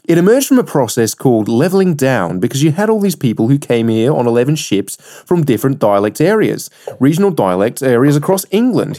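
sing-song attempt at an Australian accent; bad Australian accent. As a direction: read it out in a dubious Australian accent. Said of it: "that was probably a terrible accent".

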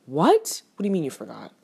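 indignant mock confrontation; retold fury. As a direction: snap back in disbelief, replaying the outrage. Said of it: "I am very furious".

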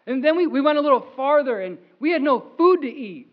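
an excited Moses recounting provision; building excitement. Pretend. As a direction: pile up the wonder.

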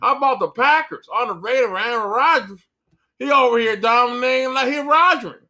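hammed-up Southern sportscaster hyping teams; mock Southern accent commentator. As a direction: play a fake Southern TV pundit. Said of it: "screaming in a Southern accent".

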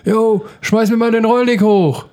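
called out high and slow; calling up from the roof. Retold or imitated. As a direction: shout up to a mate on the roof. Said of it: "dann ruft er dann da irgendwie runter".

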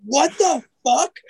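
laughing, high mock disbelief; imitating shocked girl. Retelling the shocked girl, high and laughing. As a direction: play the stunned girl through laughter. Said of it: "she's just flipping out".

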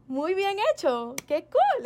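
the director gushing approval; impressed praise. Retold or imitated. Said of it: "Y él dije". (director impresionado, sube muy agudo)

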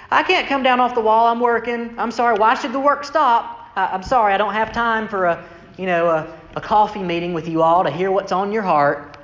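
slyly polite, mock-apologetic refusal; a wry, teasing no-thanks; sly brush-off. Nehemiah to his enemies, slyly polite refusal. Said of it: "he very slyly says".

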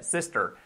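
"sister" with a soft English "er" ending; pronunciación corregida. Shown as a demonstration. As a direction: correct "sister", final R untrilled. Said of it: "No sería sister". ("sister" con final inglés)

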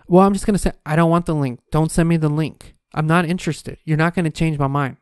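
a retold stern no to a pushy saleswoman. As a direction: shut her down flatly and firmly. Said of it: "I literally was talking to her like this".

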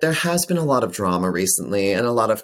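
theatrical imitation, pitch jumping at the end; mock-dramatic clip quote. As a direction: recite it like a famous catchphrase, hammed-up. Quotes her viral clip dramatically.

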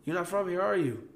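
high, loud mock-startled challenge; taken aback. Southern local stopping a rude newcomer from New York, taken aback. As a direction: pull up short with an exaggerated high-pitched query.

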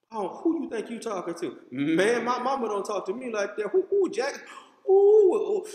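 mock outrage, ready to jump up; offended tough guy. Acted angry confrontation in church.

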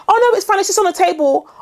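high, airy it's-nothing tone; breezy dismissive host. Retold or imitated. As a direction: brush off the snake mess lightly. Mock host brushing it off.

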